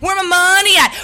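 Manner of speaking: angry demand. Acted. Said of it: "This is a real live snap".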